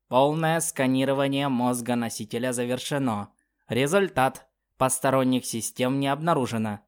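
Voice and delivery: stiff synthesized machine voice; old speech synthesizer. Acted. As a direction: read it like a robotic implant. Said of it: "ответил имплант синтезированным голосом".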